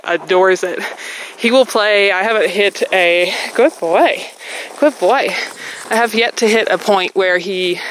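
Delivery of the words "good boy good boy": high praise. Real, not acted. Praising dog during play.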